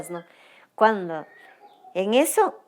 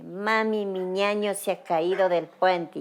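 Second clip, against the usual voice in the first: mildly raised voice, imitating a daughter's cry; half-strength imitation of someone crying out; retold cry; 4 dB louder than usual. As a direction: relay the daughter's alarm a bit louder. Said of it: "mi hija sale gritando".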